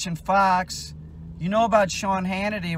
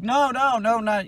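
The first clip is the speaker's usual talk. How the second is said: imitating an angry outburst; 6 semitones higher, 4 dB louder than usual. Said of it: "He's like".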